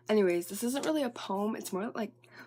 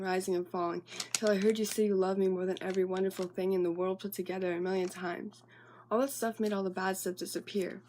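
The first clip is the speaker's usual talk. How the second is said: even, steady recital of a personal piece; monologue reading. Acted. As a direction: read your own love monologue in running, measured phrases. Reads own monologue aloud.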